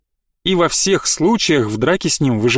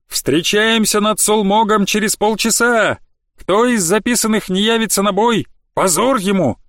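barked order; 6 semitones higher than usual. Acted. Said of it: "гаркнули в шатре".

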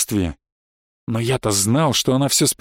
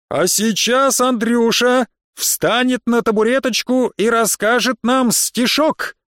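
high, slow ringmaster boom; showy announcer voice teasing a boy; pompous circus announcer; 7 semitones higher, slower than usual. A narrator's reading. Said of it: "пафосный мужской голос, таким только в цирке номера объявлять".

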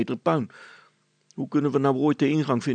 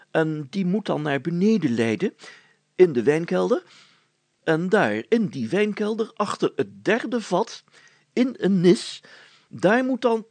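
mounting excitement; 5 semitones higher than usual. Acted. Mayor getting carried away with plan.

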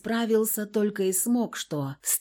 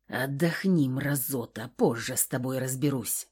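low, softer growl; grumbled threat; 6 semitones lower, 5 dB quieter than usual. A narrator's reading. Kolya grumbling a threat at the knocked-down husband. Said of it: "проворчал он".

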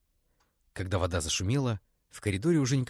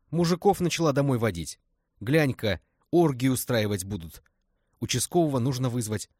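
higher, louder gossiping neighbours; alarmed neighbours; 5 semitones higher, 7 dB louder than usual. Acted. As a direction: voice the nosy communal flat neighbours. Соседи по коммуналке переполошились. (встревоженные соседи по коммуналке)

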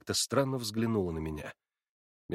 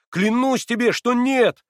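much higher and louder, passionate; fervent cry; 12 semitones higher, 9 dB louder, slower than usual. A narrator's reading. Alyosha swearing to Natasha, fervent. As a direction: swear it with all your heart. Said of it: "вскричал Алёша ещё с большим жаром".

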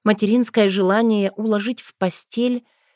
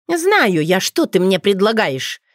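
scoffing; 4 dB louder than usual. Acted. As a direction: scoff at his offer. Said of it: "фыркнула Розали".

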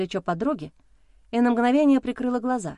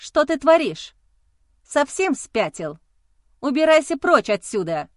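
higher, louder shout, near tears; 5 semitones higher, 4 dB louder than usual. A narrator's reading. Wife shouts at her husband to get out. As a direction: yell at him to get out. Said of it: "закричала я".

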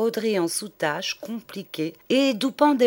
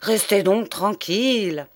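indignant; 4 dB louder than usual. Acted. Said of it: "le professeur indigné".

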